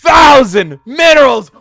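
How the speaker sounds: loud, high, slow announcer shout; game unit voice. Retold or imitated.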